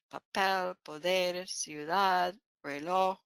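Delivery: "Papel, poder, ciudad, reloj", each stressed on its final syllable; last-syllable stress. Shown as a demonstration. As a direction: list "Papel, poder, ciudad, reloj" as pa-PEL, po-DER, ciu-DAD, re-LOJ. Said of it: "the last syllable is".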